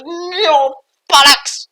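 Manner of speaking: very high, loud squeaky curse; high squeaky outburst; spirit cursing. Acted. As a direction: yelp it like a cartoon spirit. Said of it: "he appears, and he goes".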